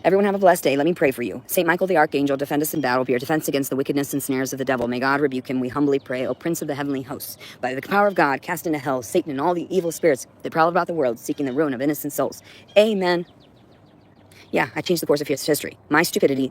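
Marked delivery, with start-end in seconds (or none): 1.5-13.3 prayer recitation. Acted.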